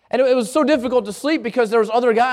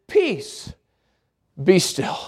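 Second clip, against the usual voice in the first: calm command; 4 semitones lower, much slower than usual. Retold or imitated. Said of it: "all he says is".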